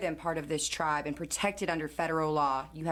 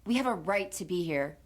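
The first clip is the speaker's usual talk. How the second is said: higher, sharp shut-up; heated comeback; angry retort; 3 semitones higher than usual. Acted. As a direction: snap back at the guard. Student snaps back at guard.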